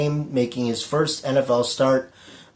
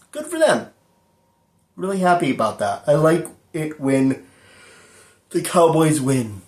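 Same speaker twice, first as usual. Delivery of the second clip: sarcastic; 2 semitones higher than usual. Acted. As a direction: fake cheer about a rival's win. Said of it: "That was sarcasm".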